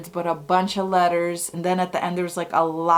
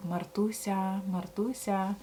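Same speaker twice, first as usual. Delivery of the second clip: soft, quiet calling of her name; a hushed call from a presence beside the bed; grandpa's calling voice; 9 dB quieter than usual. Retold or imitated. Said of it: "It was my grandpa's voice".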